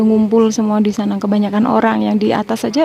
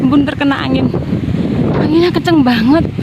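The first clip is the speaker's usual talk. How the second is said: shouting over wind; 6 semitones higher than usual. Real, not acted. Strong wind on summit.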